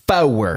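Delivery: "Four" split in two, like "FOH-wer"; two-syllable four. Retold or imitated. Freshman math teacher saying it, "Four" in two syllables. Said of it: "four had two syllables".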